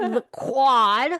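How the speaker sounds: loud, incredulous "the quad"; emphatic repeat. Real, not acted. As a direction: announce "the quad" with a rising punch on QUAD.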